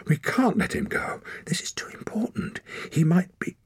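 high, breath-edged urgency; urgent appeal. A narrator's reading. Girl urges her uncle to hold the boy, urgent. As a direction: plead the case, breaking off.

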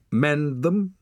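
high, loud scoffing question; a woman snorting at a boy's timid request; snorting scorn. A narrator's reading. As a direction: scoff at the very idea. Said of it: "she snorted".

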